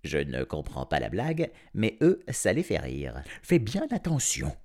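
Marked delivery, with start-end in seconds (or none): 3.4-4.6 voix plus haute, mise en garde; prévenir en voix aiguë; avertissement. A narrator's reading. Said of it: "prévient-il à nouveau". (le vétérinaire à Arif, voix haute)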